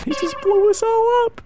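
high-pitched outburst at being blown up; shocked squeal. Real, not acted. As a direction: squeal it out in disbelief. Outraged at being blown up in game.

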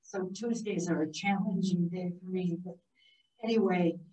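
hoarse, strained after voice surgery. Real, not acted. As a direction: speak through a hoarse voice box. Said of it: "I do apologize for this hoarse voice".

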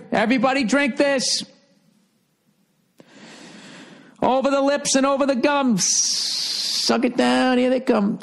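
hammed-up cult leader coaxing followers; mock cult leader. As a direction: urge the flock to drink. Cult leader urging poison.

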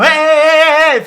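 loud sideline yelling; shouting hey. Retold or imitated. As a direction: yell it across the pitch like a coach. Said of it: "falan yapıyorum". (sahada bağıran hoca gibi yüksek sesle)

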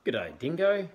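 high, loud snappy platypus greeting. Acted. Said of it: "snapping his bill".

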